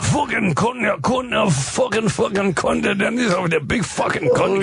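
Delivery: high, shouted mock Geordie cursing; imitating a singer cursing at dinner; Geordie swearing. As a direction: bellow the curses like the singer. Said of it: "Everything is a".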